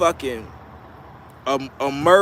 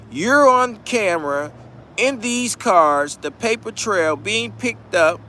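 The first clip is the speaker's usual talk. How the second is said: a lightly put-on higher official voice, slow on "in these cars"; prosecutor voice; 5 semitones higher than usual. Prosecutor laying out evidence to the defendant, lightly voiced official tone. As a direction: talk down to him like a cop reading the evidence. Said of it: "That's how they talking to him".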